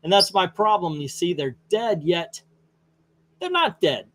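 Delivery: a hint of a lounging Joker musing to his doctor. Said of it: "Joker's laying back saying".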